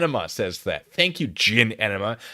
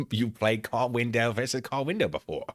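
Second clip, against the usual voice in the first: ordinary delivery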